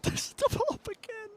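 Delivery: laughing. Real, not acted. Disbelief, laughing third call.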